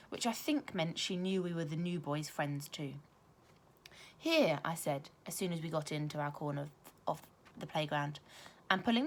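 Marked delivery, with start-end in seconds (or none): 4.2-4.6 eager call. Acted. Child offers gift eagerly.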